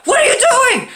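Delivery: high, retold yell of disbelief; outraged protest. Son watching mom spike his console, outraged yell. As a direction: cry out in mock outrage.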